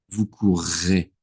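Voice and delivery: "courrez" slow, leaning on the doubled R; double R stressed. Shown as a demonstration. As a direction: draw out vous courrez to make the double R heard. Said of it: "and you have to say it".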